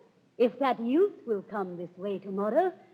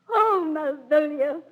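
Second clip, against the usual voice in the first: calling out; 6 semitones higher, 5 dB louder than usual. Acted. Olivia calls her steward.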